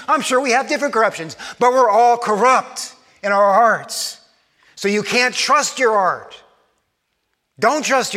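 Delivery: emphatic, urgent preaching; forceful preaching. Real, not acted. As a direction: press each point home to the congregation.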